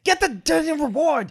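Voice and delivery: high-pitched, drawn-out angry command; exasperated order. Acted. Wilfred sends his servant for the reward, exasperated.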